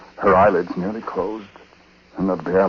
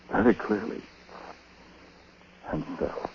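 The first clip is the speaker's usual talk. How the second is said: hushed narration; 3 semitones lower, 9 dB quieter than usual. A narrator's reading. Narrator lowers voice.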